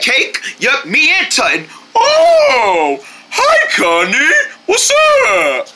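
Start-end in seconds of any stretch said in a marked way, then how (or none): 1.9-5.7 laughing greeting. Acted.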